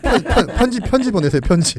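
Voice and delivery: loud, stumbling words through laughter; flustered laughing. Real, not acted. Teased expert asking for letters, laughing and flustered. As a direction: stammer it out while cracking up.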